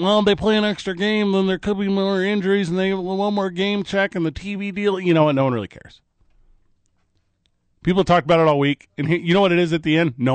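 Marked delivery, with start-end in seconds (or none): 0.0-5.0 mock debate voice. Mimicking an argument he rejects.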